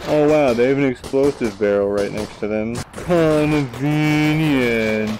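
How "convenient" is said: sarcastic. Real, not acted. Sarcastic remark on barrel.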